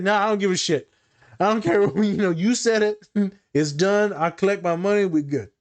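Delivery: high, laughing brush-off; laughing joke. Retold or imitated. Therapist joking he will collect his money, high and laughing. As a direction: laugh through the mock dismissal.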